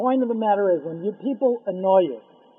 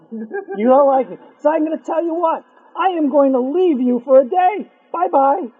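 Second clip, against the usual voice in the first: higher, louder, teasing; a sly spirit saying goodbye; taunting angel; 6 semitones higher, 6 dB louder than usual. Acted. Lying angel taunts the man.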